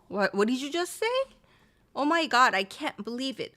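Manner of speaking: acted shock, pitch slightly up; demonstrated astonishment, punchy then trailing; surprised disbelief. Shown as a demonstration. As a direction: react as if stunned by news. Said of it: "you are surprised to hear that news".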